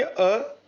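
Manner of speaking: अ said short and clipped; short vowel demo. Shown as a demonstration. Teacher demonstrating a short vowel to the class, quick. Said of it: "आप ही बोल के देखिए".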